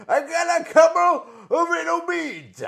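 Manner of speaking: high loud wrestler bravado again; brash repeated boast. Shown as a demonstration. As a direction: hammer the line out like a promo. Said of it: "Rick, I don't know".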